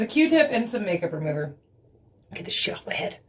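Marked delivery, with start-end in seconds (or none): 2.3-3.2 frustrated hushed whisper; whispered curse. Real, not acted. Frustrated with the stuck tattoo, whispering to herself. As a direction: hiss it under breath.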